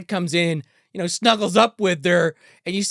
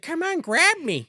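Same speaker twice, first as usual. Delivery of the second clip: mock seductive dad; 13 semitones higher, slower than usual. Dad voiced in bed.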